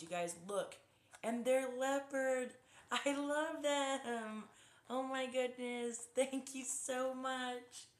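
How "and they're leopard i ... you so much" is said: delighted gushing. Real, not acted. Gushing over gifted headphones.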